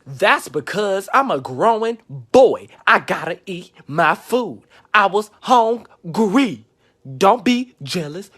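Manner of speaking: mock whining; whiny excuse. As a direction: plead like a spoiled little brother.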